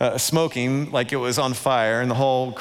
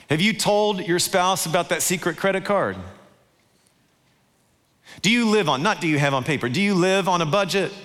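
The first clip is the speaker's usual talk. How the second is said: raised, pressing questions; searching challenge; 5 semitones higher than usual. Acted. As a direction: preach it as a probing challenge. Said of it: "holding up a mirror to say".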